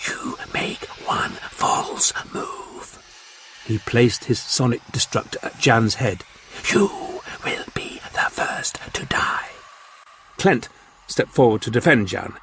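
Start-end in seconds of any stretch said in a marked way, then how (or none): 0.1-3.0 slow, hissed, menacing whisper; whispering Martian warlord. Acted. Martian threat. 6.7-9.5 slow, hissed, menacing whisper; whispering Martian warlord. Acted. Martian threat.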